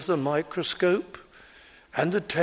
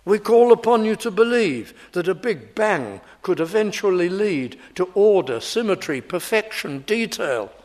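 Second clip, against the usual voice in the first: lightly voiced objector, raised and emphatic; insistent evolutionists; 4 semitones higher than usual. Preacher voices evolutionists denying a designer, mock insistence. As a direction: argue the evolutionists' case with mock conviction. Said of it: "Even many evolutionists say".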